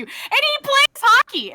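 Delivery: high laughing aside; laughing at the irony. Real, not acted.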